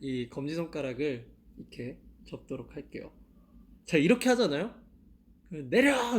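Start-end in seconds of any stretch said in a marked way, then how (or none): 5.5-6.2 high, loud shout to drop the hand; shouted command. Shown as a demonstration. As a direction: yell it like a fan in the crowd. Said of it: "이렇게 소리 질러주세요". (높고 크게 외치는 "내려!")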